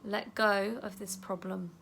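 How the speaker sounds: calm self-talk while tapping; gentle affirmation. Shown as a demonstration. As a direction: say it tenderly to yourself. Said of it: "you're gonna say".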